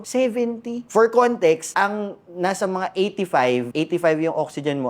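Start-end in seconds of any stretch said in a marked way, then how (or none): 0.0-0.9 sharply higher, startled "Seventy?"; gulat. Retold or imitated. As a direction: blurt it out in disbelief. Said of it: "Tapos sabi ko". (gulat na gulat na tanong)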